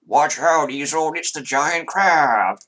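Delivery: put-on high, loud, slowed-down child voice in play; a little boy hamming up a monster game; excited kid. GM voices child playing with claw.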